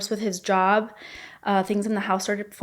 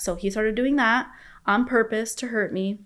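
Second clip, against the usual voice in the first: ordinary talk, nothing marked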